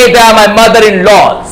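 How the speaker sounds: slow mock-wrong plural; wrong form. Shown as a demonstration. Teacher slowly showing the wrong plural to avoid. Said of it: "I would not say".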